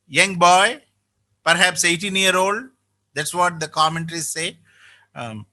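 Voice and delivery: usual speaking voice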